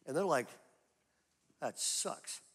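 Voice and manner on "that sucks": muttered reaction. Retold or imitated. Tough guys reacting to the news.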